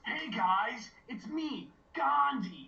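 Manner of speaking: high, loud hammed-up Gandhi voice; Gandhi impression. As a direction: overdo a cartoonish Gandhi. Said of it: "the speaker's impressions".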